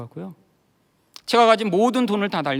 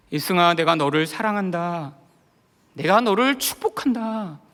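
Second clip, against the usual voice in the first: lightly voiced divine blessing; measured, understated fatherly declaration; God; 2 semitones lower than usual. God's voice heard through husband's weeping, lightly voiced. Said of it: "하나님의 음성처럼 들리기 시작했어요".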